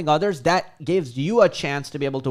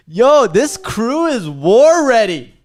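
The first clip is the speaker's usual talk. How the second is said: hyped shout; 7 semitones higher, 8 dB louder, slower than usual. Real, not acted. Hyping up the ready viewers.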